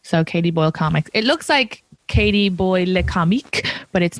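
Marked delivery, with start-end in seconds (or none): 2.1-3.7 lightly French "Le Comique", stress on the last syllable; mock French accent. Shown as a demonstration. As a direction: read the name as if it were French. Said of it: "looks like I'm a fucking French person".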